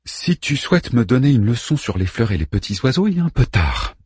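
cold, cutting reply; icy voice. Acted. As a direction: freeze him out with each word. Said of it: "répondit Ada d'une voix glaciale".

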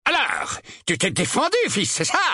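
booming voice. A narrator's reading. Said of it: "d'une voix sonore". (voix sonore de père)

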